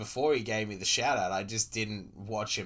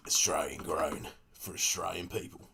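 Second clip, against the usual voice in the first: lower, rough-edged commercial narrator; a hint of a gravelly Aussie ad voiceover; 4 semitones lower than usual. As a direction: sell Australian eggs like a gruff TV ad. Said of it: "I gotta do less gravelly".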